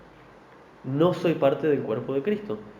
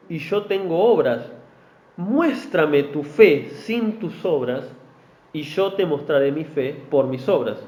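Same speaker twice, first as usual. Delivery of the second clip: slow, deliberate Bible reading; scripture reading; slower than usual. Acted. Preacher reading scripture to the congregation, slow and deliberate. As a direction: read the verses slowly to the church. Preacher reads James aloud.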